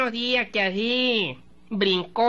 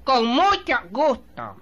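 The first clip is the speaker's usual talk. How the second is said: "Con mucho gusto" said slowly and a bit louder; slow correction; 3 semitones higher, 4 dB louder, slower than usual. Shown as a demonstration. Teacher correcting the yanqui with a slow "Con mucho gusto". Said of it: "No, ese que no".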